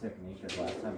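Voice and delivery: speaking through hiccups; words broken by a hiccup. Real, not acted. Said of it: "I got the hiccups".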